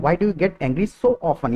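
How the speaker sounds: very slow, word by word; slow model sentence. Shown as a demonstration. Teacher modelling a question for students, very slow. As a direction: stretch each word out for learners. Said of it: "मैं इस वाले condition में इतना मतलब कह रहा हूँ".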